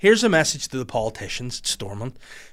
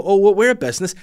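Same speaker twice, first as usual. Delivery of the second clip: mock Starbucks; 7 semitones higher, 8 dB louder, faster than usual. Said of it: "if you're gonna go".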